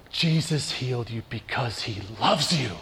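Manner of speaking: a hint of the healer's gentle voice; quiet retold words. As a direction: say it softly, like a blessing.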